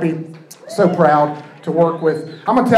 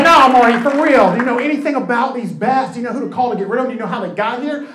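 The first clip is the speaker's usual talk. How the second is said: insistent friend; 4 semitones higher than usual. Retold or imitated. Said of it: "He's like".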